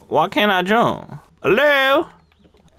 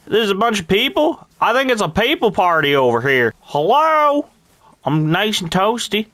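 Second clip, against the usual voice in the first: put-on Farmer Randall accent. Gamer in character as a country farmer. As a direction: play a rural farmer calling everyone feller.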